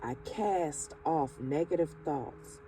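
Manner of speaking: slow, calm affirmations, each phrase set apart; slow affirmation reading. Acted. Reading affirmations aloud to the viewer, slow and calm. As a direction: lay each affirmation down slowly and steadily.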